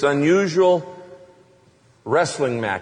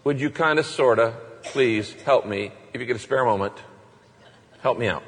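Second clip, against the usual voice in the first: mock a wishy-washy prayer; lightly mocked meek prayer; timid half-hearted prayer; 5 semitones lower than usual. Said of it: "He hates the kind of prayer".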